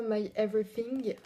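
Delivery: English name in a thick French accent. Real, not acted. Vlogger reading a makeup shade name, French-accented English. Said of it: "Mon accent anglais est déplorable".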